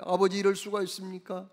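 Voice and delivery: loud, indignant son confronting his father; elder son loudly accusing his father; angry protest. Retold or imitated. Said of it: "막 큰 소리로 따지는 거예요".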